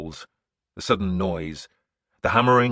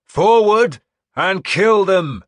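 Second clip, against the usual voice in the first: drawn-out roar, much higher and louder, x0.6 slow; slow battle roar; 12 semitones higher, 12 dB louder, slower than usual. A narrator's reading. Warlord urging men out of the fort, slow roaring shout. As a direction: stretch every word across the field. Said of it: "I shouted".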